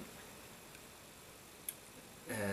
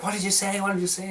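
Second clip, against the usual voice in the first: much higher, bright ditzy voice asking twice; ditzy Harley Quinn; 9 semitones higher, faster than usual. Retold or imitated. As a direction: play the airhead who didn't catch a word. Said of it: "she's sort of this sort of ditzy, sort of stupid character".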